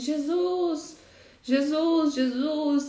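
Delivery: desperate, intense, high, drawn-out repeated shouting. Retelling a biblical scene of a woman running after Jesus: imitating an intense shout. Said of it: "gritando intensamente".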